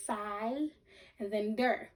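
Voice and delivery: "sigh" drawn out, then "der" set apart; syllable by syllable. Shown as a demonstration. Teacher showing pupils a long vowel, broken into syllables. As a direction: hold the long I in "sigh", pause before "der". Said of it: "if I break it in half".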